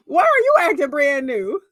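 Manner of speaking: high, mocking, incredulous; shrill mock disbelief. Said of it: "Margaret's asking her".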